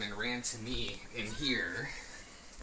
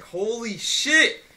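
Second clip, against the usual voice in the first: high, loud, drawn-out scream of fright; panicked scream; 11 semitones higher, 10 dB louder, much slower than usual. Retold or imitated. Waking to find an intruder in the room, a slow terrified scream. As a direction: shriek it slowly, caught off guard. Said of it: "I screamed like a little bitch".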